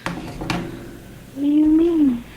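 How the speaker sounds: muffled, like speaking through water; bubbly distorted mic sound; underwater. Real, not acted. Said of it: "You sound like you're underwater".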